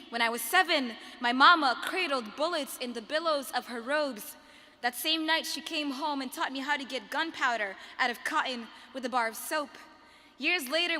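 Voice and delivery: rhythmic slam poetry, projected and emphatic; spoken word poem. Acted. Poet honours her mother before an audience, impassioned spoken word. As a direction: declaim each image with force and measured pauses.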